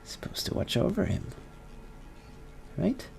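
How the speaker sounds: scolding mother. Acted. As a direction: remind her of her duty, disappointed.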